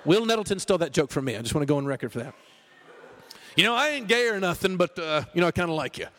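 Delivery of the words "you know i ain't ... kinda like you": a lightly mocked bashful friend; funnier awkward bro. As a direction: play the nervous guy confessing. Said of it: "It's funnier than that".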